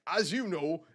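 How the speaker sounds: lightly put-on northern English accent voicing a gruff quest giver. Streamer voicing a quest giver, light northern accent. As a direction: read the boss's orders in a northern English accent. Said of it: "I just really enjoy doing a northern accent".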